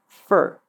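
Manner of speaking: for shortened to 'fur'; quick reduced for. Shown as a demonstration. Teacher showing the shortened word, for as quick 'fur'. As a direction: say for as a quick 'fer'. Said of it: "becomes a quick fur".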